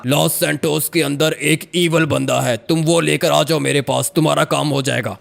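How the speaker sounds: lightly voiced ghost laying down terms; even-pitched, commanding spirit voice. Ghost telling a man the price of help, commanding. Ghost figure gives the task.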